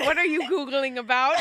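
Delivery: parroting the Googling slip; imitating her intro. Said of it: "You were going".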